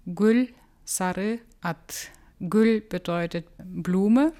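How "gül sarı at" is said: Gül, Sarı, At said as three separate Kyrgyz words, each set apart; Kyrgyz word parts. Shown as a demonstration. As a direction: spell out Gül, Sarı, At slowly one by one, Kyrgyz sounds. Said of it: "Wenn ich die auseinandernehme".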